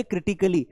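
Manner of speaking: "क्रिटिकली" with short "kuh"; correct pronunciation demo. Shown as a demonstration. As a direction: teach "क्रिटिकली" as kri-ti-kuh-li. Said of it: "क्या बोलेंगे?". ("क्रिटिकली" में छोटा "क")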